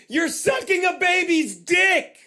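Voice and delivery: outraged punchline. Real, not acted. Punchline while reading the article.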